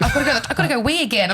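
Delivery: put-on high, fast, whiny little-boy voice. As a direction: rush it like a boy who needs the loo. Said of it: "like a little boy".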